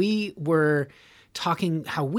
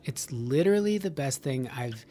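breathless unvoiced oh my God; whispered Valley girl; 4 semitones lower, 6 dB quieter than usual. Imitating a modern Valley girl, whispered. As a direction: hush it like a gushing Valley girl. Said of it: "now it's just".

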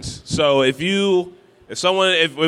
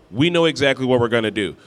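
ordinary talk

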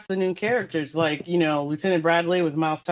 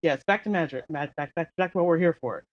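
stifled giggles; 3 semitones lower, 4 dB quieter, faster than usual. Real, not acted. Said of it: "I'm trying not to laugh".

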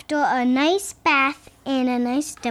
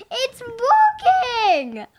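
laughing; 8 semitones higher, much slower than usual. Real, not acted. Excited child noticing meter.

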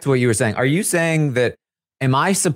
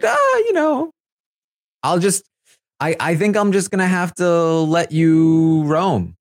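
higher, slow, drawn-out mock Jared voice; imitating Jared; 6 semitones higher than usual. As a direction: play Jared stretching the words out slowly and up high. Retelling Jared talking to Blue.

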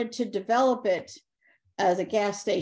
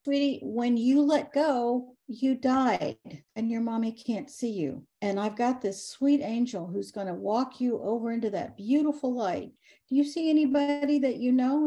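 tender reassurance; 3 semitones higher than usual. Retold or imitated. Medium tenderly guiding the ghost girl into the light, reassuring. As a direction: gently tell a child she has died.

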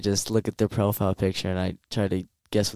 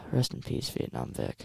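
solemn whisper; 12 dB quieter than usual. Pretend. Mock solemn farewell.

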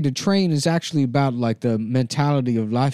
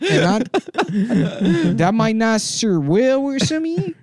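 put-on Taiwanese accent; 5 semitones higher than usual. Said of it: "It's a traditional Taiwanese accent".

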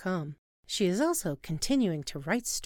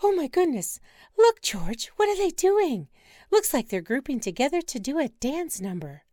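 much higher, louder, overjoyed squealing; thrilled shriek; 7 semitones higher, 5 dB louder than usual. Acted. Wife spotting penguins, squealing with delight.

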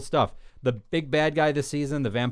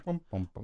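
mock musical sting; 4 semitones lower, 8 dB quieter than usual. Mock doom sting for cancelled show.

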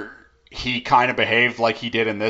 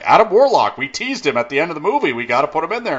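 higher, quick insistent writer voice; eager pitcher; 5 semitones higher, faster than usual. Retold or imitated. The writer pitching to the producer, eager insistence. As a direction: push the idea eagerly, a touch higher. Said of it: "he's like".

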